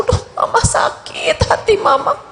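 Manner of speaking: lightly voiced whiny hurt mother; mock a petty, offended mum; a hint of a complaining mother. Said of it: "model ibunya yang nangisnya karena tersinggung".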